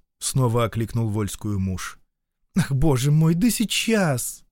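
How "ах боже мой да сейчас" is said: mild anguish, dragging the last words slowly; weary, pained reply to the husband. Acted. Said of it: "с тоской произнесла та". (с лёгкой тоской, протяжно)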